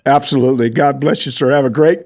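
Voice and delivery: usual speaking voice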